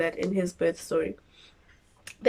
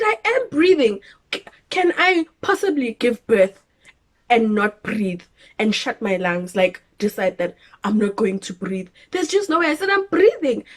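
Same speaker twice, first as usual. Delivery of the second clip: exasperated protest. Retold or imitated.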